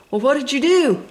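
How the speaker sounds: breathless eager whisper; hushed excited Lightning. A narrator's reading. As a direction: whisper it, hooked on the tale.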